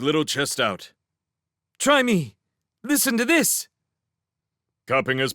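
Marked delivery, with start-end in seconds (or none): 1.8-3.7 much higher, eager and bold; excited youngster volunteering; eager boast. Acted. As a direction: show off your big lungs. Young hare eager to shout.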